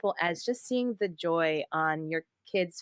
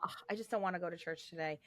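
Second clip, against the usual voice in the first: reluctant groan; 10 dB quieter, faster than usual. Retold or imitated. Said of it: "sometimes I get the thought".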